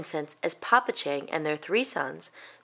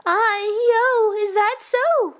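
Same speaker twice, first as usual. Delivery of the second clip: high, louder granny exclamation; surprised old woman; 14 semitones higher, 5 dB louder, slower than usual. Acted. Old woman hearing the boy's tale, high and amazed. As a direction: marvel as an elderly listener.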